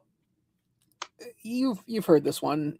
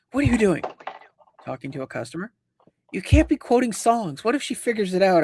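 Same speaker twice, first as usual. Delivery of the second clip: higher-pitched retold reproach, dipping briefly in the middle; alarmed supervisor; 3 semitones higher than usual. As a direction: imitate a supervisor's mildly panicked telling-off. Panicked supervisor scolding a quoted employee.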